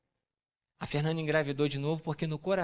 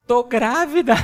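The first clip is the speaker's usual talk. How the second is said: loud laughing announcement; laughing reveal; 7 semitones higher, 11 dB louder, slower than usual. Retold or imitated. Pastor retelling his wife's pregnancy news, laughing loudly. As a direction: burst out with the news through a laugh. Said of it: "sabe o que ela me fala".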